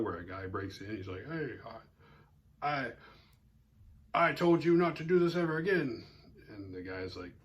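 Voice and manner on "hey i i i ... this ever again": higher, louder mock scolding from a bad porn actor; stammering fake outrage, a touch hammy; hammed-up porn actor. Retelling porn scene dialogue.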